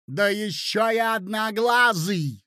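high, drawn-out jeering exclamation; angry cry. Acted. Hostess joining the attack on the prince, crying out. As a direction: pile on the insult with relish. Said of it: "закричала Марья Александровна".

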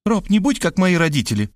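put-on high coaxing girl voice; pleading Varvara. A narrator's reading. Varvara asking Rob not to be like her parents, high. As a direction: ask him lightly, high. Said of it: "попросила Варвара".

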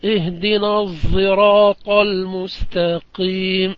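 tint the sad in الصراط with a buzzing z; sad mixed with z. Shown as a demonstration. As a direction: recitation of الصراط with ishmam of zay. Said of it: "والباقون بالصاد الخالصة".

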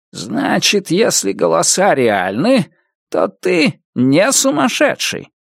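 put-on old man raising his voice too. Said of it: "тоже повысив голос".

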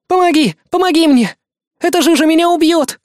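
put-on high, loud panicked girl's cry; a young girl stuck in the mire begs for rescue, screaming; terrified scream for help. A narrator's reading. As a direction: scream for help as the mud pulls her under. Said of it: "Девчонка кричала уже охрипшим голосом".

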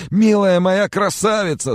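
high, loud lamenting cry; wailing. Acted. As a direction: wail it into her neck. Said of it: "запричитал он".

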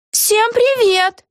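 very high, slow cheerful greeting; very high, drawn-out hello; cheery witch. A narrator's reading. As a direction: sing out hello carelessly. Eggi greets.

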